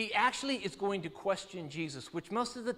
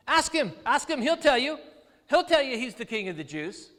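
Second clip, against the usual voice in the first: raised, louder, insistent urging; egging him on, pitched up; urgent accusers; 5 semitones higher, 5 dB louder than usual. Acted. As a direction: press the point like an accuser goading a judge. Voicing the accusers urging Pilate.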